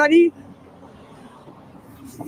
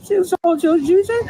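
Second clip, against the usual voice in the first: slow, tearful whine; on the verge of tears, pleading; whiny crying; 4 semitones higher than usual. Real, not acted. Upset she lost her internet.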